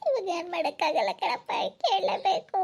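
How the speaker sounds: tearful, helpless wail; acted weeping in despair; crying. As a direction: wail it out, letting the last word trail into sobs. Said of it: "ಅಳ್ಬೇಡ. ಯಾಕ್ ಅಳ್ತೀಯ?".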